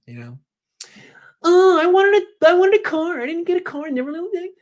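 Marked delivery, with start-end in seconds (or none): 1.4-4.5 Kyle Shanahan. Pretend. Host plays coach as teen denied a car, squealing whine. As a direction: wail like a spoiled fifteen-year-old, trailing off. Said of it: "like he's fifteen".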